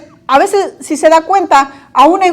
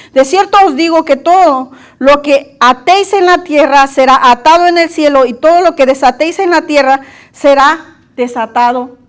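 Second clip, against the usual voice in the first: scripture reading. Real, not acted. Preacher reads Matthew to the congregation with solemn weight. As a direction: read the verse out with weight. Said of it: "Dice en Mateo dieciocho dieciocho".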